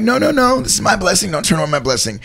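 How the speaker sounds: high, eager insistence; insistent. Retold or imitated. Insisting to the cashier that he pays, eager. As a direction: insist warmly, won't take no. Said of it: "And I'm like".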